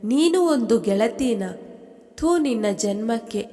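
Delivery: mild tearful pleading to a false friend; a touch of weeping in the accusation; crying reproach. Acted. Anuja crying at her friend, mildly tearful and hurt. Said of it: "ಅಳುತ್ತಾ ಹೇಳುವಳು".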